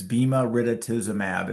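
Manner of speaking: "bema ritituzumab" each syllable placed deliberately, like a scientist teaching the name; drug name pronounced. Shown as a demonstration. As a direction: say "bema ritituzumab" as BEH-muh rih-tih-TOO-zoo-mab, carefully spelled out. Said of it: "is how you pronounce it".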